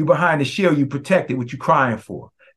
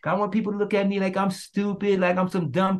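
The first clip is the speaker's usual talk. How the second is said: mock timid objector; 5 semitones higher, 6 dB quieter, faster than usual. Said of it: "to say".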